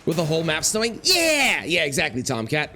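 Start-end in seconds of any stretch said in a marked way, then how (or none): 1.0-1.6 loud, high burst of agreement; excited yell. Real, not acted. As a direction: shout yes with glee.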